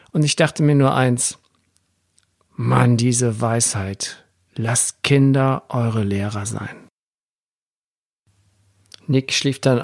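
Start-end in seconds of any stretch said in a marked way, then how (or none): 2.6-6.9 slow, weighty delivery. Retold or imitated. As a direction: let each word sink in, marvelling. Father marvels at child's wisdom. (langsam und andächtig staunend)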